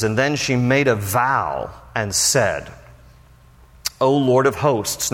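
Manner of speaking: slowly, weight on Lord; slow reading. Shown as a demonstration. Pastor reading Hannah's vow aloud, slow and solemn. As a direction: read the phrase solemnly and slow. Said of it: "here's that phrase again".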